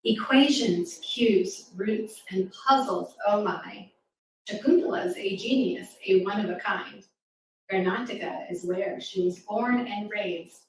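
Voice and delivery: rhythmic rhyming poem read to a class; poem recital. Acted. Reading a rhyming poem aloud.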